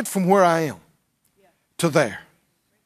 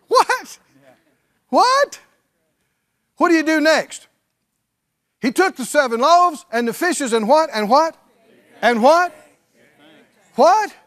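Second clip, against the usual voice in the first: much higher, louder calls for an answer; call and response preaching; 7 semitones higher, 3 dB louder than usual. Acted. Preacher presses the congregation to finish the verse, calling out loudly. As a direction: drag the answer out of the crowd.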